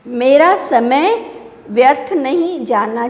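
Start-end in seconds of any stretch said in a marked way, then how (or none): none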